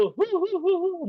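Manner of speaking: mock high-pitched wailing hoots; put-on weeping, slow and high; imitated sobbing. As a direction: imitate drawn-out crying on a high "hoo-hoo". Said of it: "한 여자아이는 막 울어요".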